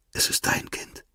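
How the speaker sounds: soft voiceless whisper; a hidden whispered confession. A narrator's reading. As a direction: breathe the secret to him. Secret confession at gunpoint.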